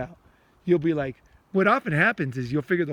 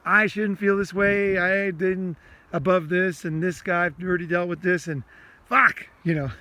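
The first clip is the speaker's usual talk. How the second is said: frustrated venting; 3 semitones higher than usual. Shown as a demonstration. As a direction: vent at yourself about a feeling you can't shake. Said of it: "you can talk like that".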